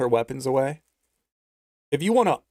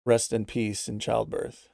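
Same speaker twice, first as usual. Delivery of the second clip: lower, soft reading of a chat message; reading donor message; 4 semitones lower, 4 dB quieter than usual. Retold or imitated. Streamer reading a viewer's message, low and soft. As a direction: read out the viewer's offer in a low, quiet voice. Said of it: "Kitty Daddy says".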